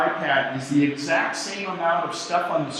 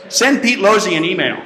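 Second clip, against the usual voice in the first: voice command; 3 semitones higher, 6 dB louder than usual. Shown as a demonstration. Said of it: "here's what Siri is".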